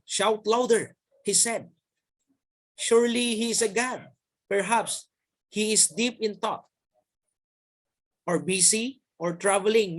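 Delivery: a mild mocking taunt at rival prophets. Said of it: "Elijah began to taunt them".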